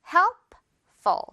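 emphatic drill. Shown as a demonstration. Teacher calling the drill word out to the class. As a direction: call out helpful brightly.

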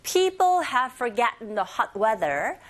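slow whole-sentence model; very slow teacher model; slow model reading. Shown as a demonstration. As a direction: read it out slowly for the class. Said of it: "thank you for sharing the sentence".

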